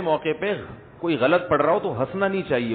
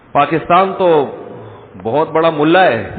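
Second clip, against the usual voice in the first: emphatic loud; 7 dB louder, slower than usual. Real, not acted. Emphatic jab at Pakistan's religiosity.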